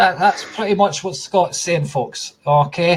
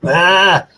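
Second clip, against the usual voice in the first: exasperated cry; 3 semitones higher, 5 dB louder than usual. Acted. Mimics frazzled parent remembering dishes.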